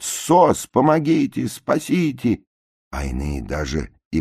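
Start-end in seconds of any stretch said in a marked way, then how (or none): 0.0-2.4 high pleading calls; cries for help. A narrator's reading. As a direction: wail for rescue. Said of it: "кричат". (жалобные крики о помощи)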